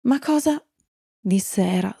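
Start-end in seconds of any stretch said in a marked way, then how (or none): 0.1-0.6 high-pitched, bewildered question; astonished. A narrator's reading. Era sees him run away, an astonished high question. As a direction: blurt it in storybook surprise. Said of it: "stupita nel vederlo scappare".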